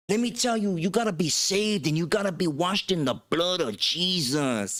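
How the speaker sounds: high, preachy sermon voice; mimicking preacher. Retelling the preacher's words to the homies, high preaching voice. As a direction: preach it like the vato pastor.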